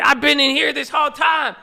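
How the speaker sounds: high, loud mock-angry brother voice; mad brother. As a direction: play the jealous brother whining high and loud. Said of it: "I said".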